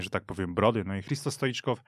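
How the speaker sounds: ordinary talk, nothing marked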